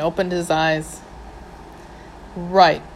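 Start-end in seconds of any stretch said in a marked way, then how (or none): 2.4-2.8 stern. Acted. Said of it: "I said sternly".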